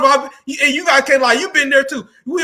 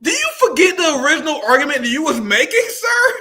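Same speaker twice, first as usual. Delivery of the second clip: laughing; 5 semitones higher than usual. Real, not acted. Host laughing mocking the senator.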